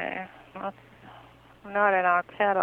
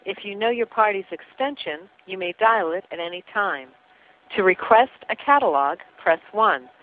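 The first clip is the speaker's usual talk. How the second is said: phone menu voice. Acted. Automated phone menu greeting.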